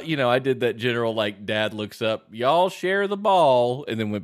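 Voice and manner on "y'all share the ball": offhand parental call-out. Acted. Dad looks up and calls out.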